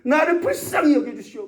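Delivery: mock crying out. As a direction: call out to someone far away, pleading. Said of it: "소리를 지르는 거예요".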